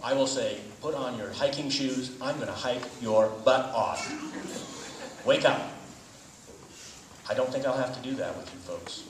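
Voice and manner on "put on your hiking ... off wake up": loud, higher, playful threat; mock drill-style wake-up. Speaker pretending to wake a student for a hike, loud mock-stern. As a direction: rouse a sleeper with emphatic mock orders.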